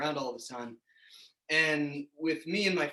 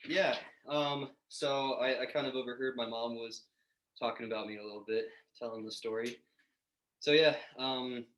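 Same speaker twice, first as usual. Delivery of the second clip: breathless after a walk; a little winded, catching breath; 3 semitones lower, 4 dB quieter than usual. Real, not acted. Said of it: "sorry, I'm a little out of breath".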